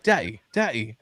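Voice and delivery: imitated British toddler; mock-British child; Peppa Pig accent. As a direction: repeat it as a kid with cartoon British vowels. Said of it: "Peppa Pig accent".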